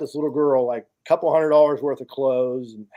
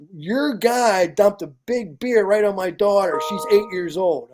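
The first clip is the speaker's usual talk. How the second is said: higher, drawn-out mock outrage; retold angry complaint; 4 semitones higher, slower than usual. Upset mother complains to the man in charge, mildly indignant retelling. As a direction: imitate an indignant mother, slow and raised in pitch.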